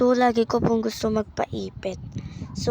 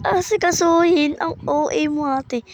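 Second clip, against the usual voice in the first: mock incredulous; 4 semitones higher than usual. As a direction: scoff at someone overdramatic. Acts out teasing reply to herself.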